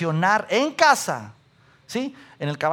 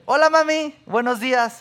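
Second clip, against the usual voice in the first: higher, bright-eyed cheerful hello; cheerful son greeting; 5 semitones higher than usual. Retold or imitated. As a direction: greet mom like a sweet son. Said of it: "Y yo siempre".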